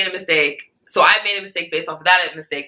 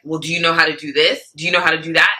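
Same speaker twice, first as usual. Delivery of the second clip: condescending; faster than usual. Retold or imitated. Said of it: "He did become a little condescending".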